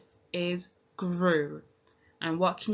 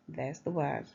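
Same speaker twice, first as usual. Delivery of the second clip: normal talking voice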